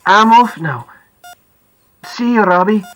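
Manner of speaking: put-on Scottish-accented goodbye; Scottish man. A narrator's reading. Driver takes leave of the boy, Scottish accent. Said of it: "He sounds Scottish".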